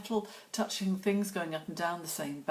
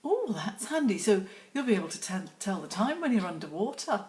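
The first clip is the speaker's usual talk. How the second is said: higher, louder mock mum; lightly voiced mum joking; mum's quip; 4 semitones higher, 4 dB louder than usual. Imitating mum teasing about the dry watch. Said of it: "She went".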